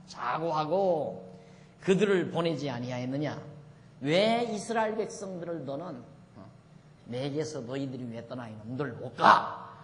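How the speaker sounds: drawn-out, mildly acted divine rebuke; God's rebuke. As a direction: scold lightly, stretching out the opening word. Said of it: "하나님이 책망하는 거죠".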